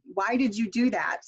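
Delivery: "why did you do that" dropping on "that"; falling intonation. Shown as a demonstration. Teacher modelling a W H question, falling intonation. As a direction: let "that" fall at the question's end. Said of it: "or I'm going down rather".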